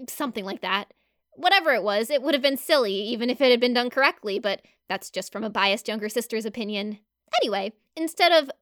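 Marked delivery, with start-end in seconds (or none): none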